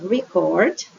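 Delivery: "record" stressed on the second syllable, re-CORD. Shown as a demonstration. Teacher showing students noun-verb pairs, "record" stressed on second syllable. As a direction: lean on the end of "record": re-CORD. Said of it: "the word stress is different".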